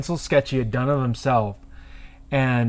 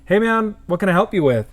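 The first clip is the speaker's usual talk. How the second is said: higher-pitched shop greeting; retold customer greeting; 6 semitones higher than usual. Tattooist to man in the lobby, higher-pitched greeting.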